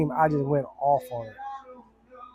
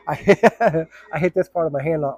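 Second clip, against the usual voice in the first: talking through laughter; real laughter over his own story; laughing; 4 dB louder than usual. Real, not acted. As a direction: chuckle while explaining the injury. Laughs recalling hitting wall.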